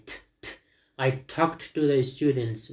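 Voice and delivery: slow model sentence with "talked" as talkt; T sound demo. Shown as a demonstration. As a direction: sound out "ت" alone, then "talked" ending in T. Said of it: "listen repeat the sound and sentences".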